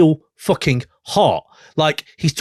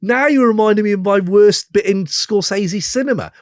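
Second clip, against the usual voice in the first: higher, mock-groaning oh no; mock dismay; 8 semitones higher than usual. Telling his co-host how the outro made him groan, mock dismay. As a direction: pretend dismay at a bad memory. Retelling his reaction to the song.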